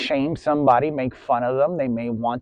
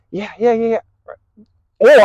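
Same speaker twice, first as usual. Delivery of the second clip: high, eager yeahs in an odd put-on voice; happy dog; 7 semitones higher, 10 dB louder than usual. Dog reacting to a sweet tone, happy high yeahs. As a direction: play the excited dog answering back. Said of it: "And the dog would be like".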